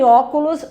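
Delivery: "óculos" with a strong opening ó; teacher's demo of "óculos", stressed on ó; stress on first syllable. Shown as a demonstration. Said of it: "a sílaba tônica é ó".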